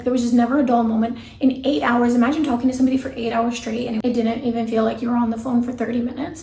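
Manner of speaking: usual speaking voice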